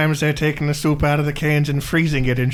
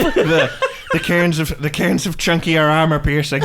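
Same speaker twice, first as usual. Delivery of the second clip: louder, higher voice with laughter; laughing; 6 semitones higher, 5 dB louder than usual. Real, not acted. Cohost adding to the soup joke while laughing. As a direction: chuckle through the punchline.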